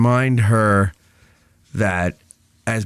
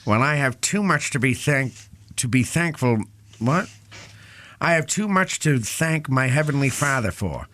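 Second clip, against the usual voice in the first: 1930s radio announcer; 4 semitones higher than usual. Pretend. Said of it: "like, a nineteen thirties radio person".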